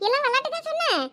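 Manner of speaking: pitched well up, teasing his excuse back at him; mocking imitation. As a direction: throw his own excuse back mockingly, high and sing-song. Mocks his excuse to the aunt. (அத்தையிடம் அவன் சாக்கை கேலியாக உயர்ந்த குரலில் திருப்பிச் சொல்லுதல்)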